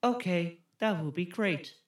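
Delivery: mock a wooden actor's reply; flat film boyfriend. Co-host as boyfriend accepting the plan, wooden. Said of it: "that's exactly how they talk".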